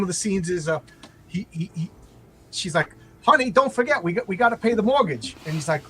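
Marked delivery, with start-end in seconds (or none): 3.2-5.4 sitcom wife. Retold or imitated. Wife reminds husband of mortgage.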